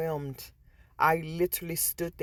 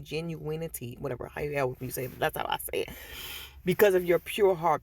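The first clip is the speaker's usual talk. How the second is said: Spirit telling Shayla she is ready, lightly lowered and calm; Spirit speaking. Retold or imitated. Spirit's long speech.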